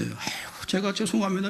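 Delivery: high, hushed mock sobbing apology; hammed-up weepy contrition; tearful repentance. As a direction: imitate a put-on tearful apology. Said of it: "눈물을 흘리고 회개하대".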